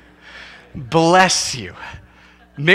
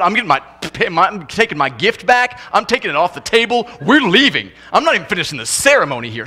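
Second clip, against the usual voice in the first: mock indignant walkout; 3 semitones higher, faster than usual. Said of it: "we're like going".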